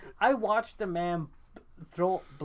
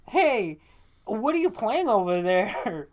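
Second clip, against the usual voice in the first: mock ad voice; 2 semitones higher, 4 dB louder, slower than usual. Mocking ad voice.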